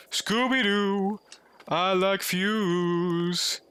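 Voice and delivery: slow, silly Scooby-Doo style drawl; dopey cartoon dog voice; goofy cartoon voice. Silly voice while searching.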